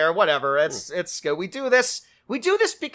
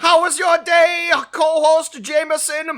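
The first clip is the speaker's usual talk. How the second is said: robot voice; 9 semitones higher, 5 dB louder than usual. Acted. Robot bit continues.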